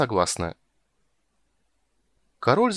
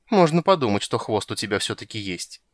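aside. Acted. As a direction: mutter it sideways. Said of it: "в сторону заметила Тигровая".

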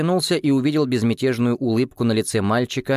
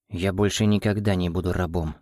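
grim; 3 semitones lower than usual. Acted. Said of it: "мрачно сказала Соломенко".

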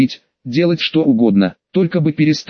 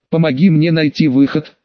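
usual speaking voice

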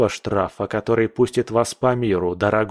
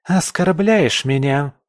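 higher, slow menacing question; predatory squint; 5 semitones higher, 3 dB louder, slower than usual. A narrator's reading. Pamela challenges Ronald, higher and slow. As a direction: narrow the eyes and ask. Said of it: "хищно сощурилась Памела".

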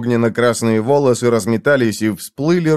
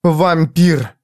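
higher, pointed accusation; accusing; 4 semitones higher, 3 dB louder than usual. A narrator's reading. Jiz accuses Foyle to his face, pointed. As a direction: hurl the word at him. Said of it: "повторила Джизбелла".

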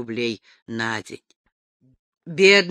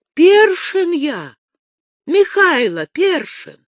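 louder, higher, slow insistent naming; 9 semitones higher, 6 dB louder, slower than usual. A narrator's reading. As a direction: spell out his own name to the prince. Першин настойчиво называет себя. (громко и медленно, настойчиво)

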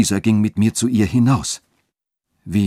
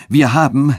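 higher, louder proclamation to the crowd; proclaiming loudly; 6 semitones higher, 6 dB louder than usual. A narrator's reading. Bishop announcing a witch to the gathered mob, loud. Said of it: "rief er".

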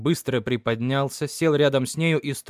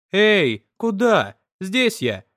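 higher, louder call across the water; girl in the bushes calling to the rower, louder higher call; 6 semitones higher, 5 dB louder, slower than usual. Acted. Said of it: "негромко крикнули".

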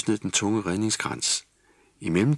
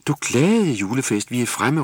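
higher, louder happy call; joyful shout; 5 semitones higher, 6 dB louder than usual. A narrator's reading. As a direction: shout it out to the shore. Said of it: "råbte skipper Nis". (glad råben)

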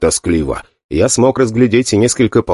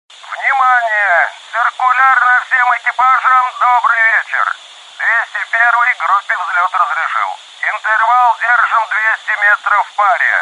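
radio voice; 12 semitones higher than usual. Acted. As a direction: announce like a dispatcher on air. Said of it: "услышал я голос в эфире".

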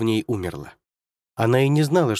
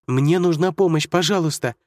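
desperate plea; 6 semitones higher, 3 dB louder than usual. Acted. Girl calling for help.

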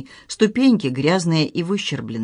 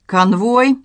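barked order; 6 semitones higher, 5 dB louder than usual. A narrator's reading. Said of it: "рявкнул полковник".

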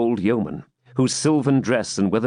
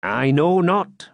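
slow, higher doubtful swineherd; gruff swineherd voice; 6 semitones higher, much slower than usual. A narrator's reading. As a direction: drawl a doubtful answer. Gurth answers.

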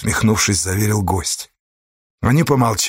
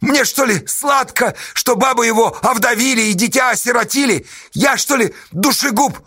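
high, pitched-up protest; anguished outcry; 10 semitones higher than usual. A narrator's reading. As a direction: throw the question back. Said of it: "закричала Сташа".

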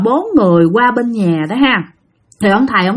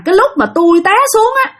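put-on much higher, rushed voice of a dead teen; voicing a young ghost, higher and faster; ghost's lament; 5 semitones higher, faster than usual. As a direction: plead your story as the spirit. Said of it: "nó nói rằng".

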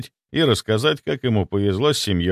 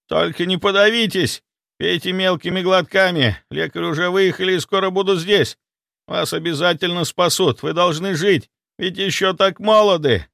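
soothing; 8 semitones higher than usual. A narrator's reading. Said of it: "пытаясь успокоить меня".

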